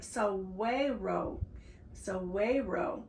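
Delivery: saguaro slowly, with a W for the G; careful pronunciation. Shown as a demonstration. Reader tries to say it right, saguaro slowly as "so-WAY-ro". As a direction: sound out saguaro as "so-WAY-ro". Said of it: "let's see if I can say it right".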